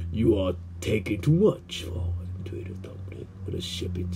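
hushed gossip whisper; softly whispered aside. Acted. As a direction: whisper it like a secret.

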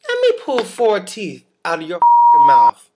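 loud furious rant; angry rant. Real, not acted. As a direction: rant at the dentist. Ranting at the dentist.

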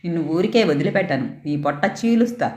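mild fury, mostly understated; a father threatening his daughter; raging father. Acted. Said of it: "ఆక్రోశంతో". (ఆక్రోశంతో తండ్రి బెదిరిస్తూ)

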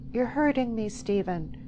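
high, pained protest; pleading. A narrator's reading. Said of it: "she pleaded".

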